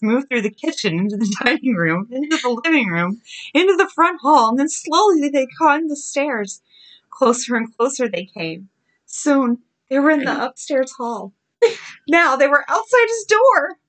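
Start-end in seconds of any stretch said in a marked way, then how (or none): 3.5-8.7 higher, tense scary-story narration; spooky narrator raising the pitch; suspenseful storytelling. A narrator's reading. 9.1-13.8 high-pitched, tense narration; suspenseful storytelling. A narrator's reading. Climax of scary story narration.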